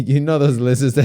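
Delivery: laughing while talking; giggling as you picture it; amused laugh breaking through. Real, not acted. Laughs picturing lizards lifting legs.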